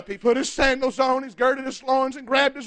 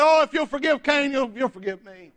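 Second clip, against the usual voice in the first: presumptuous demand. Acted. Preacher as Lamech to God, presuming on forgiveness. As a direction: take forgiveness for granted, sinking at the end. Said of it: "This was Lamech's attitude about it".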